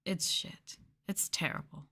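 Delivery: under-the-breath whisper; whispered aside. Real, not acted. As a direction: drop to a whisper for the verdict. Muttered aside about kids' English.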